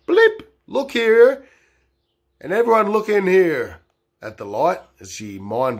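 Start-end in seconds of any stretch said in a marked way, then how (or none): 0.1-3.8 mock agent. Zapping memory like Men in Black.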